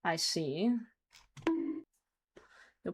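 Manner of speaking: ordinary talk, nothing marked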